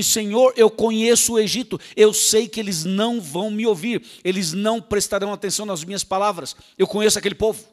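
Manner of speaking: Moses pleading loudly with the Lord; loud, insistent excuse-making; acted pleading. Preacher voicing Moses' loud excuses.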